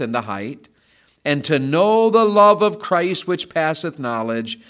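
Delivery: measured, reverent Bible reading; scripture reading. Acted. Reads scripture aloud.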